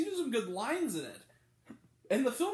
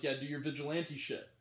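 low, softer grudging mutter; begrudging; 7 semitones lower, 5 dB quieter than usual. Retold or imitated. Cop grudgingly lets the vigilante carry on, low and softer. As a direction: give in grudgingly. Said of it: "begrudgingly is like".

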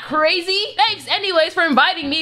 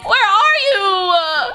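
mock crying; slower than usual. Guest searches party for a rapper, mock-crying call. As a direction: wail for the missing star. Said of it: "Stop crying".

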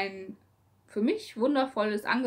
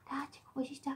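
soft whisper to a pet; hushed, playful whisper; whispering to dog; 4 semitones higher, 13 dB quieter, much faster than usual. Real, not acted. (leise flüsternd zum Hund)

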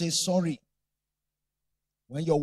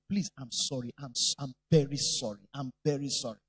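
tender apology; 6 semitones lower than usual. Shown as a demonstration. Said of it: "And say".

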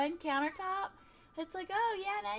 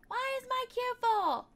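higher, louder indignant question; exasperated disbelief; 7 semitones higher, 5 dB louder than usual. Real, not acted. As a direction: complain at the game.

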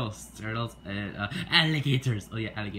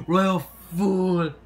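loud summoning call; shouted summons; 6 semitones higher, 8 dB louder than usual. Acted. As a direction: bellow for the royal fool across the hall. King calls out for the fool.

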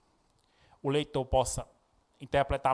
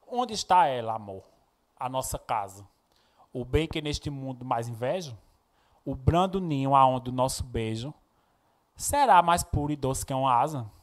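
measured recitation, pausing between verses; poem reading. Acted. Teacher reading a verse example to students, poem recitation. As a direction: read it as verse, lifting the opening question.

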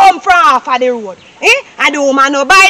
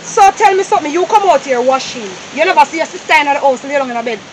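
stern mother; 4 semitones lower, 4 dB quieter than usual. Acted. Mother lectures about lazy sister.

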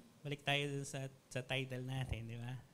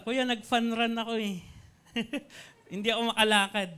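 mock whiny excuse; 7 semitones higher, 5 dB louder than usual. Excuse-maker quoted.

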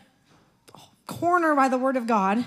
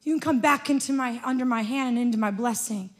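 tender parent. Retold or imitated. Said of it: "You're like".

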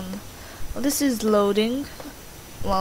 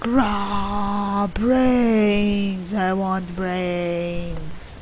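lightly voiced zombie; much slower than usual. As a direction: drag it out like a lazy zombie. Playing zombie voice.

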